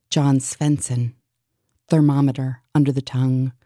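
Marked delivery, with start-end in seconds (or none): 0.1-1.1 a light German accent, Svensson with an f-like v. Shown as a demonstration. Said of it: "John Swenson in a German accent".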